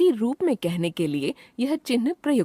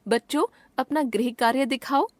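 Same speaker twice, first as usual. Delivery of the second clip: higher-pitched call to pupils, lightly acted; addressing children; 5 semitones higher than usual. Shown as a demonstration. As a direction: address the class, pausing after बच्चों. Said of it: "संबोधन करने के लिए". (बच्चों को संबोधित करने का लहजा)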